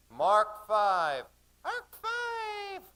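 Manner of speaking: put-on high, loud screamed call of children; children screaming. A narrator's reading. Children screaming the depth at the boat. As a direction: scream it out like excited kids. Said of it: "all the children screamed".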